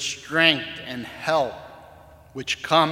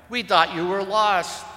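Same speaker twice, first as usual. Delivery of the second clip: cried out; 6 semitones higher, 6 dB louder than usual. Acted. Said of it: "cried one".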